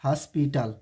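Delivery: हॉस्पिटल with an open "a", "haspital"; common mispronunciation. Retold or imitated. Teacher shows how we misread हॉस्पिटल, open "a". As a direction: say हॉस्पिटल as "aspital". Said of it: "हम लोग क्या इसे पढ़ते हैं".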